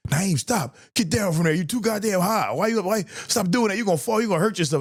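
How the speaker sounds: mock-scold him down like a fretting mother; high-voiced impression of a nagging mom; worried mom.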